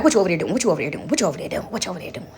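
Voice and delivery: a lightly voiced blind grandma calling out; grandmother's voice. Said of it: "she like".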